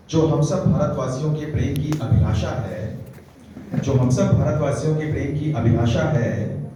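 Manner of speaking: declaimed verse, measured and emphatic; poetry recitation. Acted. Poet honouring Hindi Diwas for listeners, declaimed recitation.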